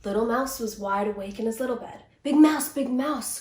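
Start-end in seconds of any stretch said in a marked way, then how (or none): 2.2-3.4 slow, loud call into the dark; a child calling from his bed. A narrator's reading. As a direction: call out to Big Mouse. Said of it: "called Little Mouse".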